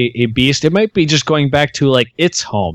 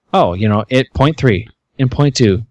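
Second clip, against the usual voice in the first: angry GPS voice. Retold or imitated. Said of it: "always ends up like".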